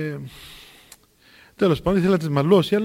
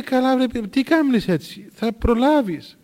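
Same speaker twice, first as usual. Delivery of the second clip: higher, slow drawn-out teasing; easygoing retold chiding, slowly; amused reassurance; 5 semitones higher, slower than usual. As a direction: stretch it out to tease the worrier. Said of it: "αφού γελούσε ο γέροντας".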